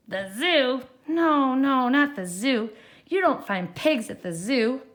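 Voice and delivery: scoffing witch. Acted. Witch rejects own idea.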